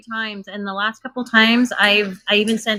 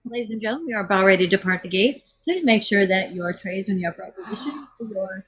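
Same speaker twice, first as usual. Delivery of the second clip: airline cabin announcement voice; polite announcement over the intercom; flight attendant. Pretend. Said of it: "The stewardess voice".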